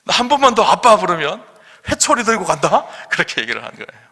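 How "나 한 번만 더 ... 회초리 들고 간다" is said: put-on high, loud warning to the child; threaten, half playing it up; mock angry threat. Angry father threatening his child with the rod, loud mock warning. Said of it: "아빠가 화가 났어요".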